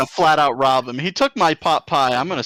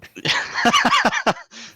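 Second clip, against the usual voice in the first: high laugh. Real, not acted. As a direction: burst out laughing. Laughs at thief joke.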